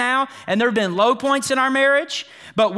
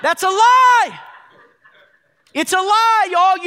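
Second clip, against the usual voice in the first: louder, much higher, laughing declaration; laughing loud rebuke; 10 semitones higher, 6 dB louder, slower than usual. Real, not acted. Preacher to congregation, loud laughing rebuke. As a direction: call it out with a laugh.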